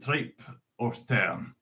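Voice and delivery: reciting Burns in a lightly put-on Scots accent; an unpractised Scots accent, recited; Scots poem reading. Shown as a demonstration. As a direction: read it out like a Burns Night address in Scots. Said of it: "I'm not used to speaking Scots".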